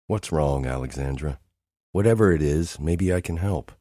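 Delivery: soft concerned brother; softened voice. Acted. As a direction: ease off and ask softly what's wrong. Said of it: "my voice softens".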